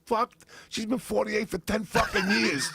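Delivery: high exasperated outburst. Real, not acted. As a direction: blurt it out in disbelief. Exasperated outburst about mom's age.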